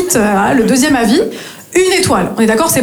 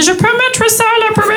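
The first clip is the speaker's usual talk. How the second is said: put-on French in a thick English accent; high pupil faking an English accent; mock English accent; 10 semitones higher than usual. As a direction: say French words with exaggerated English vowels. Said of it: "Très, très bon accent".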